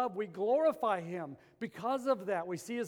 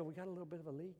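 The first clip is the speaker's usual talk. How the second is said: mock casual; 2 semitones lower, 9 dB quieter, much faster than usual. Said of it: "walk in there casually and go".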